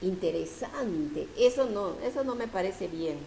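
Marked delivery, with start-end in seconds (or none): 0.0-1.3 a slow, softer, lower "Interesante" from a listener; half-hearted listener interest; mock listener reaction. Shown as a demonstration. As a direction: act out a listener who finds it interesting. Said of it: "ustedes dicen".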